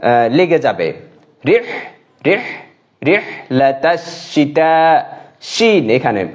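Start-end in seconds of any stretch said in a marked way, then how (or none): 1.5-5.0 রিহ ending in a breathy throat h; রিহ with a pharyngeal h; throat h in rih. Shown as a demonstration. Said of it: "কণ্ঠনালীর মধ্যখানটা".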